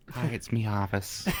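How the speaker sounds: lightly voiced character greeting; a hint of a put-on character voice; Harvis voice. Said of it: "get his voice going now".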